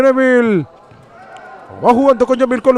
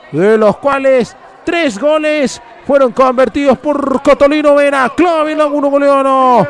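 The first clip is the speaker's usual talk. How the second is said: excited post-goal praise; 3 semitones higher than usual. Real, not acted. Praising the scorer after goal.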